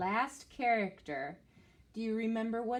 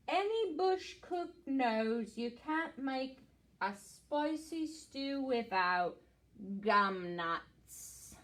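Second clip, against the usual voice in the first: koala voice; slower than usual. Acted. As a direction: drawl it out like a slow old koala. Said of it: "and says".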